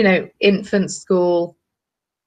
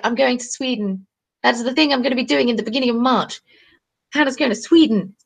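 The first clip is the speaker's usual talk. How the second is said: higher, brisk news; excited announce; 4 semitones higher than usual. Real, not acted. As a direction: share the trip eagerly.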